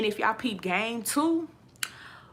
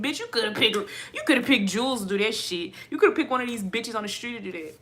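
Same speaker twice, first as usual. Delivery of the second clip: loud rant; 4 dB louder than usual. Real, not acted. Ranting at the producers.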